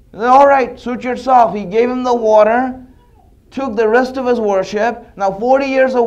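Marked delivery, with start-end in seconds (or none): 0.3-1.5 louder, higher brush-off; loud curt agreement. Acted. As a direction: toss it off loudly. Seller agrees loudly.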